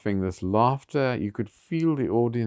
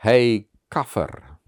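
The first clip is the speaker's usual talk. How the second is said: a slow, louder shouted insult across the stage; retold yell; 2 semitones higher, 6 dB louder, slower than usual. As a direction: bark the slur out slowly, to shock. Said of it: "and he yelled".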